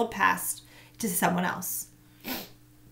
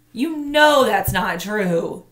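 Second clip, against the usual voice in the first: put-on reproachful girl; 2 semitones higher, 8 dB louder, much slower than usual. A narrator's reading. Tamaya reproaches, slow.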